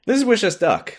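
quacky cartoon duck voice; Donald Duck voice. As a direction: squawk it like Donald. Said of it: "A segment where we try to sound like Donald Duck".

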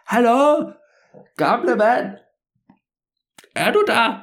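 loud, high call over the hedge. Acted. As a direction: shout for the old man far away. Boy calls out over hedge.

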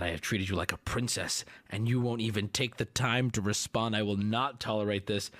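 low, controlled indignant reading; mock stern anger. Streamer reads man's angry texts to Ruby, low mock-stern scolding.

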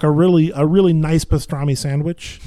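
Brooklyn accent, pushed into the nose; nasal, forward-placed Brooklyn accent. Shown as a demonstration. Testing the accent on a deli order, Brooklyn accent. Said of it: "putting more into my nasal resonator".

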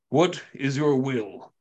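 a slow, altered giant's voice; deliberate, heavy words from a huge stoic warrior. Acted. Giant asks the seated hero for orders, slow and grave. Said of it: "and says".

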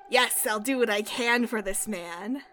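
emphatic. Acted. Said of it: "she nods emphatically".

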